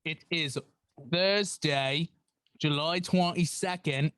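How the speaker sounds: a slow, hammed-up British accent greeting; put-on British host voice, deliberately bad. Host greeting the Duff fathers and mothers in a bad British accent. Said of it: "Yes, I'm doing a British accent".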